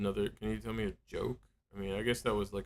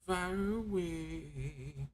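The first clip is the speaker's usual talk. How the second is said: robot voice; 7 semitones higher, much slower than usual. Retold or imitated. Echoes the AI's phrase back.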